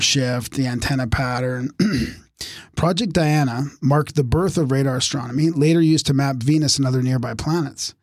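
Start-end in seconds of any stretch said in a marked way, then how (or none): 2.8-7.9 strained, fading voice; reading with a tiring voice; losing voice. Real, not acted. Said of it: "I'm losing my voice".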